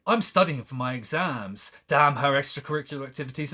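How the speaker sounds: fast, sarcastic mock read; mocking paraphrase. Streamer mocking the narrator's complaint with quick sarcasm. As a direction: rattle it off like a snide diary. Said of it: "it's like".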